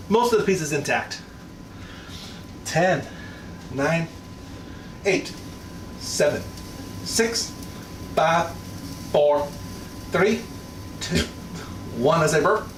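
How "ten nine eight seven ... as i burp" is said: excited countdown. Real, not acted. Counting down to the pizza.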